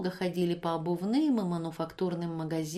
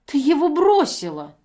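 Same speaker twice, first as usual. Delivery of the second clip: much higher, much louder accusation; accusing shout; 8 semitones higher, 10 dB louder than usual. Acted. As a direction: throw the blame at her. Евдокия обвиняет. (громко обвиняя)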